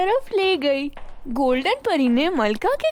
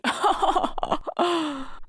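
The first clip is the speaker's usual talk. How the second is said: queen's laugh; 4 dB quieter than usual. A narrator's reading. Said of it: "जोर-जोर से हंसने लगी".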